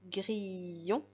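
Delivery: "grillon" stretched, long i before the final on; sounds drawn out. Shown as a demonstration. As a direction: let the on be heard after a long i in "grillon". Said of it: "j'entends le on après le son i".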